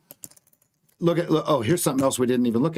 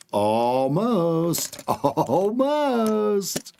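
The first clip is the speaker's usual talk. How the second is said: laughing; 2 semitones higher, much slower than usual. Real, not acted. Excited watching price near target.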